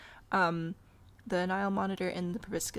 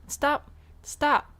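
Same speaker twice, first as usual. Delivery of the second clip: loud, higher, separate bursts of "stop"; mock scolding shout; 7 semitones higher, 10 dB louder than usual. Player telling zoo animals not to have children, mock shouting. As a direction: shout it like scolding misbehaving pets.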